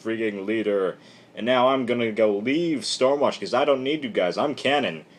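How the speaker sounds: mock hissy fit. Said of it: "Cannon throwing a little hissy fit".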